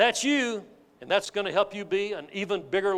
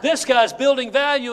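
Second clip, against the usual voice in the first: laughing; 5 semitones higher, 8 dB louder than usual. Real, not acted. Laughing admiration of the caller.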